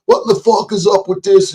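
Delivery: high, mock-indignant question; incredulous mock question. Asking what's up with the channel, high incredulous. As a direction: throw it out like an outraged viewer. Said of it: "'cause I question".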